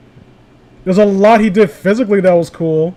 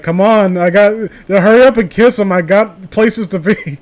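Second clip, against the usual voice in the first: impatient hurry-up voice; 3 semitones higher, 3 dB louder than usual. Acted. Voicing an impatient Chris Hansen.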